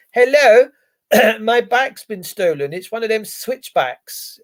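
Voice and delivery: mock caller. Mock report of stolen bike.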